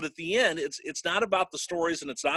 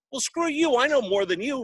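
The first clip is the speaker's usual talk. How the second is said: mock retort; 9 semitones higher, 3 dB louder than usual. Mock retort to his buddy Dave.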